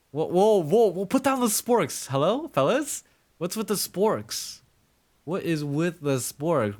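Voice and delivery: high, loud, hammed-up alarm; mock panic. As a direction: pretend to calm a sudden riot. Pretend panic at rioting sporks.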